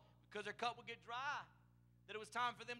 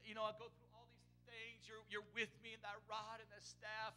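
mild broken-down recitation; 6 dB quieter than usual. Retold or imitated. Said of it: "he would break down".

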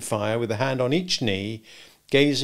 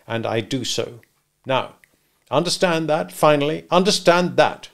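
higher, louder lecturing lawyer; stern lawyer; 4 semitones higher, 4 dB louder than usual. Acted. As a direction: drive each point home like a brief. Jaggers' parting remarks.

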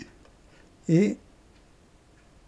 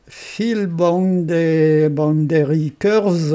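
English menu name read slowly in an Alsatian accent; 5 dB louder, much slower than usual. Real, not acted. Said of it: "excusez-moi pour mon anglais alsacien". (anglais à l'accent alsacien, lent et appuyé)

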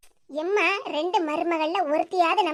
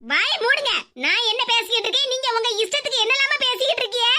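indignant telling-off; angry; 3 semitones higher than usual. Acted. Bride's mother rebuking her teasing in-law, angry. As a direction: cut them off, annoyed. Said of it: "கோவப்படாதீங்க சம்மந்தி அம்மா".

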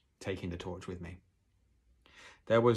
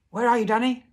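very high, loud searching shout; calling out; 13 dB louder than usual. A narrator's reading. Father trying to locate his son, calling out. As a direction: shout across the wood. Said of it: "my father called out".

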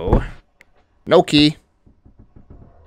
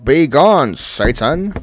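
loud be-gone cry; mock exorcism shout; 3 semitones higher, 7 dB louder, much slower than usual. Real, not acted. Gamer yells at a spooky scare, loud. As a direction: banish the demon loudly.

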